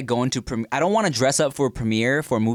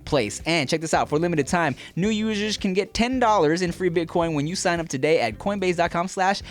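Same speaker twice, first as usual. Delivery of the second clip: higher, lively sponsor read; podcast ad read; 6 semitones higher than usual. Real, not acted. Host pitching a crypto sponsor to listeners, ad read. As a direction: sell it in a lively promo voice.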